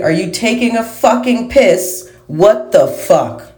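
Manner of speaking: high mock English outburst; mock English accent. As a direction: imitate an exasperated English speaker. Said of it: "how did the English say".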